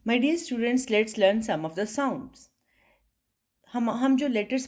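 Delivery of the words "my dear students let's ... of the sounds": slow, carefully spaced opening; formal class address. Acted. Teacher opening the sounds lesson, slow and formal. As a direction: greet the class and set out the lesson slowly.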